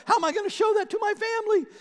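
high, loud panicked question; a sudden rush of high-pitched panic; panicked thought. Retold or imitated. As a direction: blurt it out in alarm. Retold panic over the verse.

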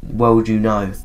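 lightly voiced, measured ghost; hushed spirit explaining gravely; ghostly voice. Ghost explaining the cut-off school, lightly ghostly. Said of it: "I'm gonna do, like, a ghostly voice".

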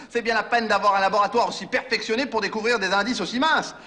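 lâché en riant, moqueur; sarcasme rieur. Acted. Se moque du laboratoire. (réplique moqueuse entre deux rires)

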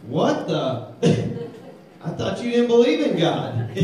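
high, loud, laughing through it; mock the atheist with a laugh; amused disbelief. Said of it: "he looks at him and goes".

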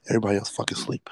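quick hushed whisper so nobody wakes; hushed, hurried whisper. Shown as a demonstration. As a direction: drop to a fast whisper.

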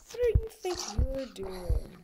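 whispering. Acted. Whisper at a mob.

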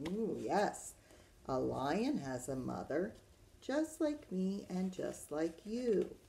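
lilting storybook answer; reading to children. Acted. Teacher tells children a lion has a mother, lilting storytime voice. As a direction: answer the book's question for little listeners, stretching the refrain. Reads picture book to children.

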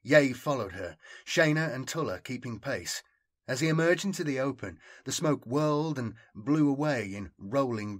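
measured, dramatic battle narration; story narration. A narrator's reading. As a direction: narrate the battle with deliberate phrasing. Reads battle story aloud.

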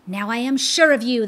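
quick triumphant gloat; gloating cry. Acted. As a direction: crow over the fallen pilgrim. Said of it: "the fiend cried".

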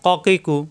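"ক কি কু" with rounded first vowel, never kaa; heavy qaf syllables. Shown as a demonstration. Teacher correcting a likely slip, "ক কি কু" heavy and rounded. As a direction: say "ক কি কু" thick from the tongue root. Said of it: "কা হবে না কিন্তু".

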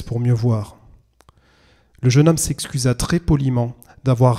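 measured literary reading aloud; story narration. A narrator's reading. Streamer opens the evening with a Kafka reading, measured narration. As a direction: read it like an audiobook, with clear pauses.

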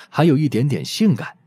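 usual speaking voice

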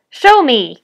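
forceful villain's demand; commanding. A narrator's reading. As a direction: bellow the order. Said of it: "commanded the goblin".

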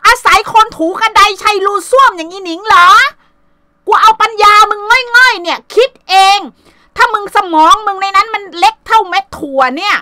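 loud, high, cutting yell of contempt; furious shout. Real, not acted. Mother shouting insults about the woman who hurt her daughter, furious yell. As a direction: blast her rival at full volume.

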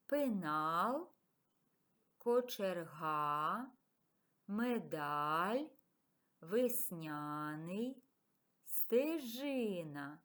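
slow, word-by-word dictation. Shown as a demonstration. Teacher to pupils dictating words to transcribe, slow. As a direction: read each word apart so pupils can transcribe. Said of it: "Затранскрибуйте ці слова".

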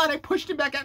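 high-pitched, overwrought parody confession; mock victim. Influencer gushing over the boy like her baby, mock weepy. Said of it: "do I look like a victim enough".

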